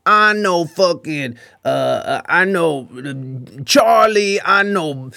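slow, drawn-out tough-guy threats; lightly voiced blustering shit talker; lame trash talk. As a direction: imitate a drunk rambling trash talker, dragging the names. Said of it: "the way he talks shit is so, so fucking lame".

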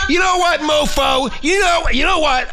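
high, heated start of a threat; worked-up threat. Pretend. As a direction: build up to a threat. Mock threat to Shrimp Boy.

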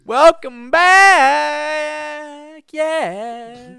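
very high, loud, drawn-out frog puppet voice; Kermit voice. Retold or imitated. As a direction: belt it out like Kermit. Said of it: "Kermit the Frog here".

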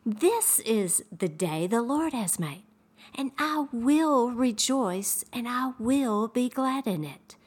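scripture quote. Retold or imitated. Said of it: "the Bible says".

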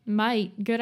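broad Australian vowel on "Mate"; Aussie accent. Acted. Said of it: "like, Aussie".

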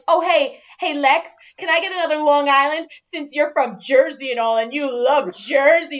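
imitating a smug regular. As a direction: tease the bartender about Jersey. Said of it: "he'll be like".

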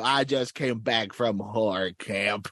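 lightly voiced cartoon villain; a hint of a boastful villain voice; Skeletor. Skeletor back from camp, boasting in a light villain voice. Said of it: "Skeletor, where did you go?".

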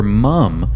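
"mom" with an uh vowel, like "mum"; pointedly local "mum" for "mom"; mum pronunciation. Shown as a demonstration. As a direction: say "mom" the New Zealand way, as "mum". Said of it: "Notice how I said mom".

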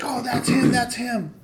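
high-pitched, eager accusation; mock tattling kid. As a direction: imitate a kid pointing out the culprit. Kid pointing them out to brother.

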